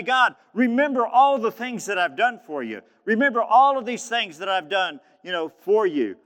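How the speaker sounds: high, loud preacher's version of a desperate prayer; tearless retold plea. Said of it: "He begins to weep".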